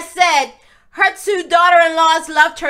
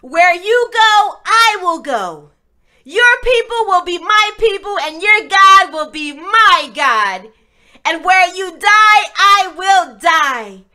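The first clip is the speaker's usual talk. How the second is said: Ruth's vow; 3 dB louder than usual. Acted. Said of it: "She told Naomi".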